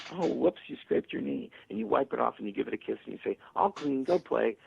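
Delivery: lightly reassuring, brushing it off easily; calm and unbothered. Retold or imitated. Calm parent to child with scraped knee, easy and reassuring. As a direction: shrug off the scraped knee like it's nothing.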